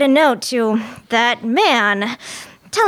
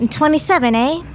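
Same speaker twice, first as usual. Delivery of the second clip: Twenty-seven A with a Canadian eh; Canadian accent; 4 semitones higher than usual. Real, not acted. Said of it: "My Canadian accent fooled you".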